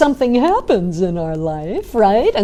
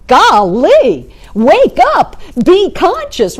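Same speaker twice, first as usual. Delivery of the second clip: higher, louder exasperated yell; angry outburst; 5 semitones higher, 4 dB louder, slower than usual. Retold or imitated. Boater yelling at the drifting boat, exasperated and higher. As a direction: scold the careless boater in a raised pitch. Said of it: "Now he's angry".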